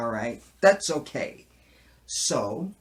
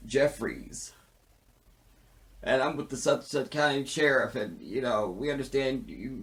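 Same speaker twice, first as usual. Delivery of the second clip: fake cop voice. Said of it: "Oscar with his fake voice".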